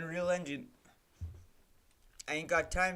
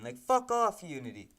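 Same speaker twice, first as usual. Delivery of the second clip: angry snap. Real, not acted. Streamer telling Unity off, sharp angry snap. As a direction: spit it at the engine. Swearing at the game engine.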